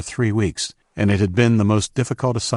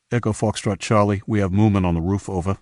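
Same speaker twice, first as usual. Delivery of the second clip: brisk walkie-talkie report; radio call. Acted. Lookout radios the team leader, brisk report.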